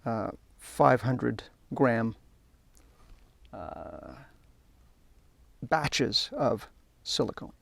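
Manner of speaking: slow, halting, with long pauses; distracted by concentrating. Real, not acted. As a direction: talk haltingly while busy with a careful task. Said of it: "trying to concentrate and talk".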